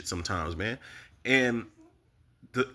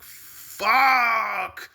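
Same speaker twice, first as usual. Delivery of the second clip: high, loud pained cry of fuck; anguished cry; 11 semitones higher, 7 dB louder than usual. Retold or imitated. Reacting to a character's overdose, anguished cry. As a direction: cry it out like a gut punch.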